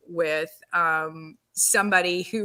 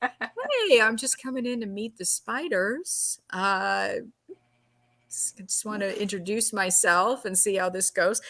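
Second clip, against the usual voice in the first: faking cool. Retold or imitated. Actress coming in to meet the spiders, faking cool. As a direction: play it mock-casual while secretly scared. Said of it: "trying to act real cool".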